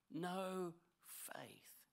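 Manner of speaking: hushed, breathy whisper of rebuke; Jesus gently rebuking the disciples in a whisper. Acted. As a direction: drop to a whisper on the last words.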